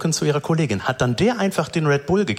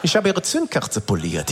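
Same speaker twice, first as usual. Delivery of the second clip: secretive mechanic. Retold or imitated. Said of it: "immer so zu sprechen, als ob alles ein krasses Geheimnis ist".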